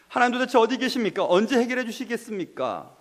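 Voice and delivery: mildly anguished appeal; lamenting prayer. Acted. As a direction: question God as a troubled David. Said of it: "이렇게 지금 다윗은 노래하고 있는".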